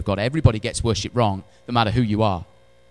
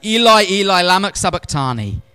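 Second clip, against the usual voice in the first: much higher and louder, crying out; loud anguished cry; 9 semitones higher, 8 dB louder than usual. Acted. Jesus crying from the cross, loud anguished cry. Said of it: "With a loud voice saying".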